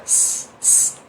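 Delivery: long slow hissing "s" like the start of a whistle; hissed s. Shown as a demonstration. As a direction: stretch out a soft "s" hiss. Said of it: "ensaio de um assovio".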